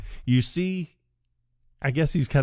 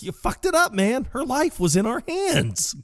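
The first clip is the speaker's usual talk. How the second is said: very high, wailing mock panic; panicked accusation; 14 semitones higher than usual. Dude to Walter after the hang-up, high-pitched panicked blame. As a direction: imitate frantic, despairing blame.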